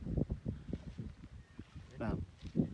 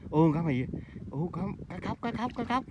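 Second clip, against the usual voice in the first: excited shouting; 9 semitones higher, 4 dB louder than usual. Real, not acted. Spotting a strange fish, excited.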